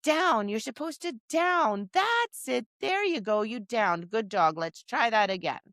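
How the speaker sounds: bright, encouraging coaching of the dog; upbeat dog praise. Shown as a demonstration. Trainer praising her dog, upbeat and encouraging. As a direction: cheer the dog on as it downs. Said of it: "I say to the dog".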